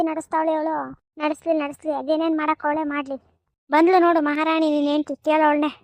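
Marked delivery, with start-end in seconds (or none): 3.7-5.7 louder, scornful call-out of the rival; mock her loudly as she walks in; jeering loud taunt. Sister-in-law taunts the brother's wife in front of him, loud and jeering.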